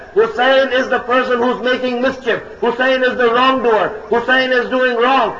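sustained emphatic sermon delivery; impassioned preaching. Real, not acted. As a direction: press the argument home without letting up. Preacher in forceful argument.

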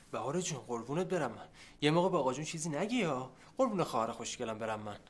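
butter up little sister, voice dropped; sweet-talking. Acted. Brother begs sister not to tell grandpa, sweet-talking.

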